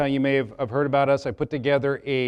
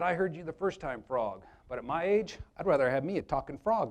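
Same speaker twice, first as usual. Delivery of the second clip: Bob's deadpan reply; 5 dB quieter than usual. Acted. Bob turning down the frog's kiss, soft and deadpan. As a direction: turn it down quietly, unimpressed. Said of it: "Bob said".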